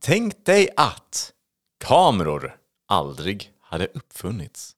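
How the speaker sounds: slow, drawn-out announcer delivery; theatrical topic announcement. Pretend. Host presents the day's premise to co-host, theatrically slow. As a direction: announce it grandly, stretching the words with pauses.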